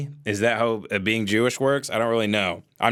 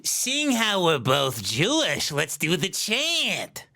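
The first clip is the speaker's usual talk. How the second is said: mock solemn invitation; 4 semitones higher, much slower than usual. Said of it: "here's how they answer".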